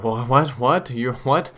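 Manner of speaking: mock-baffled stammer, pitch jumping up; retold disbelief in quick bursts of questions. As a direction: sputter in mild disbelief. Retold baffled reply to talking dog.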